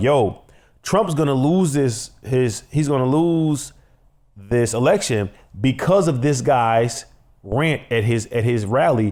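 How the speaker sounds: ordinary delivery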